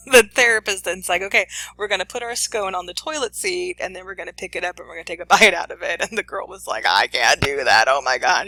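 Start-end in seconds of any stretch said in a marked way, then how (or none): 1.2-6.0 giggling while retelling the therapist; can barely keep a straight face; laughing through the quote. Retold or imitated. Host retelling the therapist's instruction, laughing. 6.9-8.5 freaking out. Retold or imitated. Host voicing the panicked girl at the toilet seat. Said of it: "She starts freaking out".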